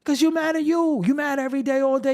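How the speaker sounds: lightly voiced fan scolding him; imitating a fan. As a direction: play the person calling him out. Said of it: "people will come sit here and say".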